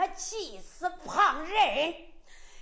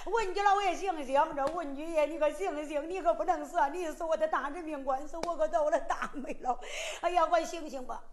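frantic calling; faster than usual. Acted. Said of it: "大声喊，小声叫，连声不断".

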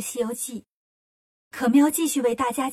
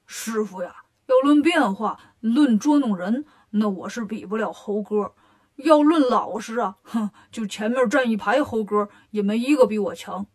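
Bajie voice; 3 semitones lower than usual. Acted. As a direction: puff up and brag like Zhu Bajie. Bajie brags to master.

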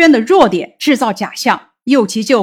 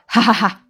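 acted laugh; 3 dB quieter, faster than usual. Character laughs in story.

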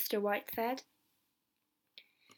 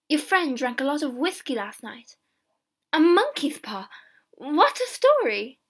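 mocking wife; 4 semitones higher, 9 dB louder than usual. Wife mocks husband's tale.

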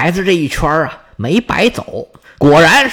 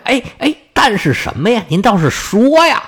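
impatient urging; 4 semitones higher than usual. Acted. Suitor urges her to continue.

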